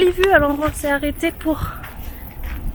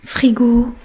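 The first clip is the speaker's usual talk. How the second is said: whispering; 4 semitones lower than usual. Real, not acted. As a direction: whisper the tour so nobody wakes. Quiet home tour, whispered.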